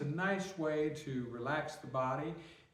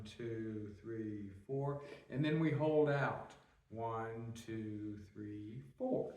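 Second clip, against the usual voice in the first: guided breathing count; 4 semitones lower, slower than usual. Shown as a demonstration.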